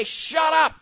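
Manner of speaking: firm dismissal. Shown as a demonstration.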